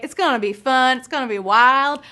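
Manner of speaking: a light touch of a country accent; hint of a country accent. Shown as a demonstration. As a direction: lightly play up a country twang for country night. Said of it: "That was my country voice".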